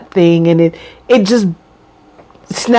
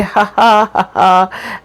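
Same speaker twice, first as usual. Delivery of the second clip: plain demonstrated ha-ha laugh; ordinary laugh. Shown as a demonstration. Showing viewers an everyday laugh, ha-ha laugh. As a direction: show how anyone would just laugh. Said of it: "you would just laugh and say".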